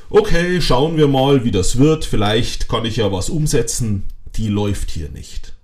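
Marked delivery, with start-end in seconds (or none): 0.1-4.0 mock noncommittal. Coach imitating a listener who won't fully commit, mock noncommittal. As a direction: put on a half-committed maybe attitude. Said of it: "Die Nummer mit".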